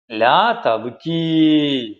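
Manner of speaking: slow, drawn-out gentle plea; consoling. Acted. Chick comforting its crying sibling, consoling. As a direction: stretch it out to comfort a crying nestling. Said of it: "പറഞ്ഞ് ആശ്വസിപ്പിച്ചു".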